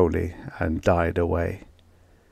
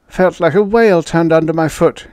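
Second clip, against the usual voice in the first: higher, louder, strained exclamation; narrator's raised voice for a panting character; panted; 9 semitones higher, 6 dB louder than usual. A narrator's reading. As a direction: blurt it out after a scare, pitched high. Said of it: "he panted".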